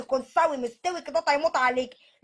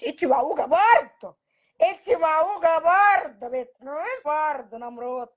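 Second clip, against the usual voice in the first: slow, louder scolding; 4 dB louder, slower than usual. Acted. Mother scolding her stubborn daughter slowly and loudly. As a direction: drag out each reproach.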